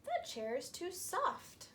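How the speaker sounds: too soft. Acted. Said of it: "And she said".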